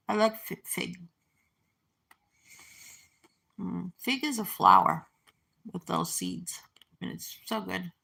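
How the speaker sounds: talking while chewing figs; mouth full. Real, not acted. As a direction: speak through a mouthful of chocolate. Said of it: "with my mouth full".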